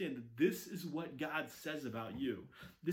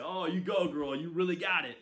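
cheering praise; 6 dB louder than usual. Retold or imitated. Cheering a saleswoman.

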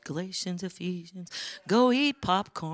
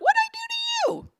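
baffled thought. Retold or imitated. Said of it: "And he thought".

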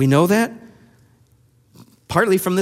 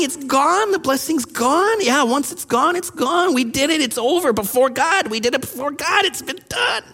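high-pitched mock wailing; hammed-up tearful lament; mock crying; 5 semitones higher than usual. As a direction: whine it out in rising bursts. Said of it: "And so here Esau's crying".

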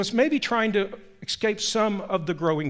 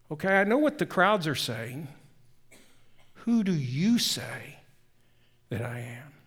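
pointed question; 3 semitones lower than usual. A narrator's reading. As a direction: press the disciples for a straight answer. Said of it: "he gets very pointed".

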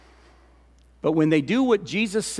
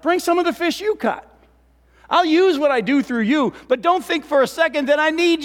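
voice of Jesus; 8 semitones higher than usual. Retold or imitated. Voicing Jesus to disciples.

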